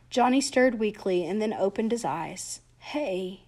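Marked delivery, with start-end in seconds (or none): 2.8-3.4 barely managed, soft greeting; dying boy, just a breath; soft and weak. Acted. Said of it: "he managed softly".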